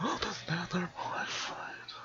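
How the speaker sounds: hushed whispered command; whispering. Acted. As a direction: breathe it out in a whisper. Same line redone whispered.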